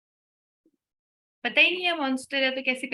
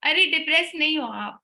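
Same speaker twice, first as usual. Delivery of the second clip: fast scolding retort; 4 semitones higher, 4 dB louder, much faster than usual. Retold or imitated. Retorting to a complaint.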